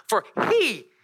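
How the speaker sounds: high and slow, each word stretched; proclaimed verse. Real, not acted. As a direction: lift the verse up slowly.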